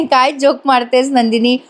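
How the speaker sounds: acted laughing disbelief; amused, laughing. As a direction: laugh it off as an imitated husband. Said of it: "जीवा आधी हसतो आणि म्हणतो".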